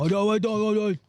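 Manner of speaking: put-on high-pitched failed try at RFK's accent; attempted RFK accent. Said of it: "tried to do the accent".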